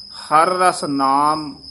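ਹਰ ਰਸ ਨਾਮ drawn out slowly, then a pause; slow, held ਹਰ ਰਸ ਨਾਮ with a break after it; pause after phrase. Shown as a demonstration. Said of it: "ਇੱਥੇ ਠਮਕ ਲਾ ਦੇਣੀ ਹੈ". (ਹਰ ਰਸ ਨਾਮ ਤੋਂ ਬਾਅਦ ਠਮਕ)

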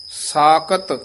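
ਸਾਕਤ held, then a clear break; pause after word. Shown as a demonstration. Teacher shows the student where to break, with a held pause. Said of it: "ਇੱਥੇ ਯਮਕ ਲਾ ਦੇਣੀ ਹੈ".

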